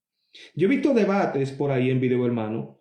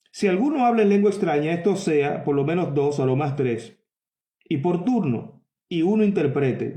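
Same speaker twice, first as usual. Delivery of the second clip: scripture reading. Acted. Preacher reading Corinthians to his congregation, measured and solemn. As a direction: read the verse out with weight.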